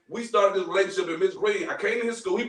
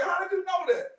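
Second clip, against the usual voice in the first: higher, amazed "How did you know that?" with a push on "you"; the caught-out teacher asking in disbelief; imitating surprise; 8 semitones higher than usual. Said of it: "She's like".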